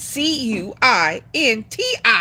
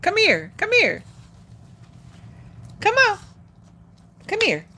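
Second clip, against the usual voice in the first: rising sing-song calls to a pet; high coaxing call; 9 semitones higher than usual. Real, not acted. Calling Jax over to her, high coaxing. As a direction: coax the dog over, pitched up.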